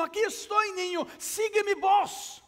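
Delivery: urgent father's shout through the fire. Acted. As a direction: call him toward your voice. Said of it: "el padre continaba gritando".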